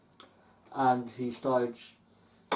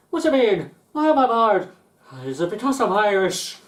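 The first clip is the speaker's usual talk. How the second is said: high, loud indignant protest; a banned man shouting his protest; outraged customer; 9 semitones higher, 11 dB louder than usual. Retold or imitated. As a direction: shout it, affronted.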